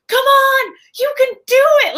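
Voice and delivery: loud, high-pitched cheering yell; yelling at the screen. Retold or imitated. Cheering the heroine on at a movie screen, a loud high yell. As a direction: shout encouragement at the top of your voice. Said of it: "Like, I yell it loud".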